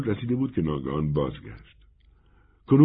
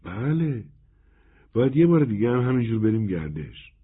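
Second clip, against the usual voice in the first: higher-pitched, happy agreement; lightly acted girlish delight; cheerful; 4 semitones higher than usual. A narrator's reading. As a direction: answer gladly, eager for another outing. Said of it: "دختر خندید و شادمانه گفت".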